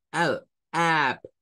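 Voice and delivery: "up" with the A-U vowel; model pronunciation. Shown as a demonstration. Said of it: "se pronuncia como up". ("up" con vocal entre A y U)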